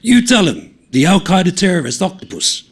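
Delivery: high, loud, gleeful teasing; crowing teasing shout; excited mockery. A narrator's reading. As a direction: egg him on with glee. Mates egging on, laughing.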